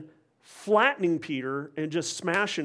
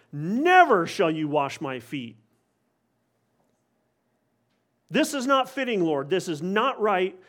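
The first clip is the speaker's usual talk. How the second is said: harsh rebuke; 3 semitones higher than usual. Retold or imitated. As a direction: refuse him flatly and firmly. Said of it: "harshly rebuked Jesus".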